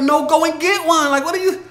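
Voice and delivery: fed-up coach snapping back at a lame excuse; exasperated scolding. Real, not acted. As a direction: bark it at the lazy student.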